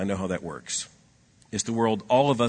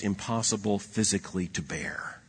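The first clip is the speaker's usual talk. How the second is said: hushed, awed aside; whisper; 5 dB quieter than usual. Real, not acted. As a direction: drop to a breathless whisper. Unvoiced whisper at sentence end.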